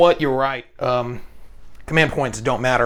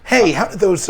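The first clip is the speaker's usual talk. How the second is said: skeleton voice; 7 semitones higher, 4 dB louder than usual. Pretend. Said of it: "their bones grinding against each other like".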